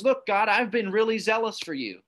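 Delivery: lightly voiced prophet grumbling to God; whining tirade. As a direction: whine it out to God, mildly hammed-up. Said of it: "this little whining tirade".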